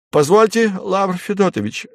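high, flustered babble; babbling. Acted. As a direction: stammer it nervously upward. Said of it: "залепетал Фарфуркис".

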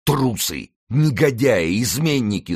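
high indignant cries; angry shouting. A narrator's reading. Winter berates his fleeing soldiers, high angry shouts. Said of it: "слышался голос Винтера".

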